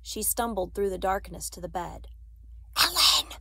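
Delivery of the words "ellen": high, forceful stage whisper; urgent whisper. A narrator's reading. Anne-Marie rousing her friend as soldiers search, urgently. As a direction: hiss the name in alarm. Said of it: "she whispered urgently".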